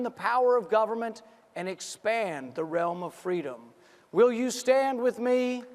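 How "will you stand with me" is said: rising shouted campaign questions; rally the crowd, building to a shout; roaring rallying speech. Real, not acted.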